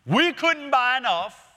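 sarcastic. Retold or imitated. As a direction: scoff at the impossible cost. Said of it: "They're being sarcastic".

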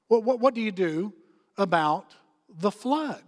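deliberate pauses before "about" and "the flood"; emphatic repeated question. Real, not acted.

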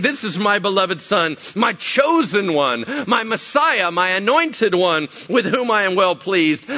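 high, loud proclamation; God's voice from the cloud. Retold or imitated. God presenting his beloved son, loud solemn proclamation. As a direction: declare it grandly, phrase by phrase. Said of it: "a voice came out of the cloud saying".

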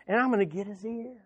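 softly, as if leaning into an ear; hushed gossip. Acted. Gossip sidling up to Jim's ear, hushed. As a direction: drop the volume sharply, confidingly.

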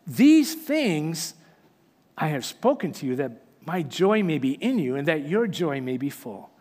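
measured, solemn reading of scripture; reading Jesus' words to the church with solemn weight. Acted. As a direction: read the Bible passage aloud to the congregation.

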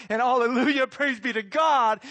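loud, high burst of hallelujah with a laugh; exultant praise. Real, not acted. Preacher rejoicing before the congregation, loud and laughing. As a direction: shout it out with joy.

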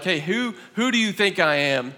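sincere, earnest asking; serious. Shown as a demonstration. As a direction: ask it and really mean it. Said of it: "asked somebody seriously".

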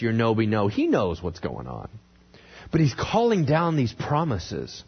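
ordinary talk, nothing marked

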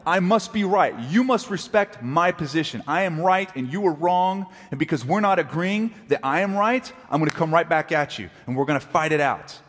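stubborn arguer. Retold or imitated. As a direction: play the prideful spouse digging in. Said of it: "what fuels arguments and yelling".

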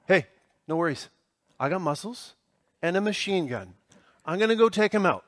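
imitating cool movie bravado; action-movie hero. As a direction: toss it off in short pieces, like a cheesy lone hero. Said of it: "who could take on everybody himself".

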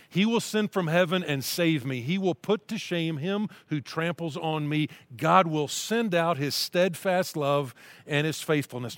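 slow, earnest reading of a psalm; scripture reading. Acted. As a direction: read it as a heartfelt prayer.

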